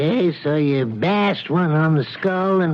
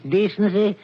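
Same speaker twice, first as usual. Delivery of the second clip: mocking laugh. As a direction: laugh at the very idea.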